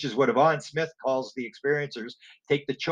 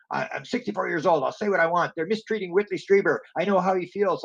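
mock yelling; 5 semitones higher than usual. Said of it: "or he's yelling".

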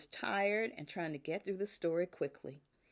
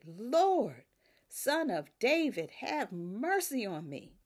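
louder, pleading cry that climbs on Lord; desperate cry, voice rising; 3 dB louder than usual. Acted. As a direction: cry it out like a desperate mother begging. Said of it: "and her voice went up".

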